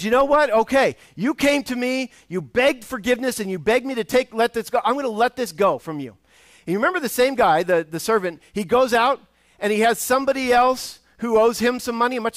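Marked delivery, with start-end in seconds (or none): 0.0-6.2 higher, louder, generous master voice; forgiving master. Retold or imitated. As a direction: lightly act the master letting it go. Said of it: "He says".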